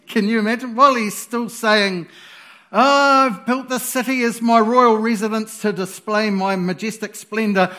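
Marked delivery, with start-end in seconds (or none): 2.7-7.7 mock boast. Mocking the king's boast again.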